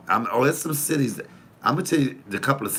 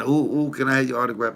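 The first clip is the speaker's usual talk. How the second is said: higher, quick gushing fan imitation; mock a starstruck autograph hunter, rushed and raised; mock eager fan; 6 semitones higher, faster than usual. Mimicking a fan begging celebrities for autographs, mock eager.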